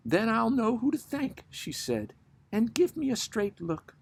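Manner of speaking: chatty, lightly voiced barroom gossip; pub gossip. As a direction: tell it like a nosy friend at closing time.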